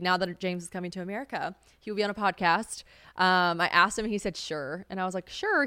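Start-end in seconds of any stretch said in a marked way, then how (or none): 4.4-4.8 soft, understated reply; softly retold, half-committed answer; low-key agreement. Retells his low-key agreement. 5.3-5.7 high-pitched doubtful echo; mock-doubting, pitched way up; skeptical echo. Echoes his answer back doubtfully.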